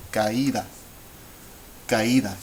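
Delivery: Caída with a and stressed í kept apart; three syllables. Shown as a demonstration. Teacher asking learners to count, three clear syllables. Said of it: "You should hear three syllables".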